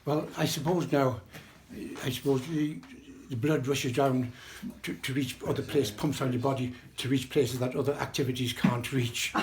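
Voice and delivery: mildly awkward, halting explanation; embarrassed. Retold or imitated. Nurse answering a question about sex, mildly embarrassed. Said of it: "who was very embarrassed about the whole thing".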